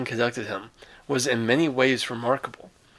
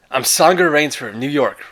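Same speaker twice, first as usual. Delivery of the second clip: louder, urgent plea to a gunman; earnest explanation under a pointed gun; lightly voiced anxious stranger; Rainsford pleading; 3 semitones higher, 6 dB louder than usual. Rainsford repeats himself to the giant.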